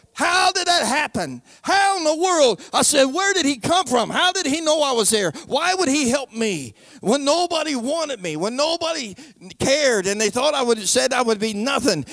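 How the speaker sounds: high-pitched, wondering questions; retold astonishment. New convert asking why he would help him, retold amazement. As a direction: marvel aloud at an undeserved rescue. Acts out astonishment at being saved.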